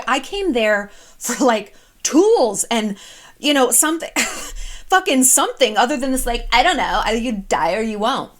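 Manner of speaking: indignant friend ranting about her therapist; mock outrage. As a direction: huff like a fed-up patient. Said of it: "She was so mad".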